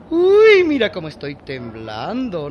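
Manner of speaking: loud sarcastic yelp, then dry; mock fear. Adela mocks the maid's threat with fake fright. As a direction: pretend to tremble, sneering.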